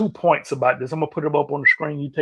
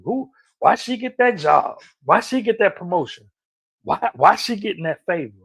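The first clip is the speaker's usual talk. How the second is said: higher, resentful questioning; jealous gossip; 3 semitones higher, 3 dB louder than usual. Retold or imitated. Coworkers hating on a promotion, lightly voiced jealous gossip. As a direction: gossip with envy. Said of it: "people start hating on you too".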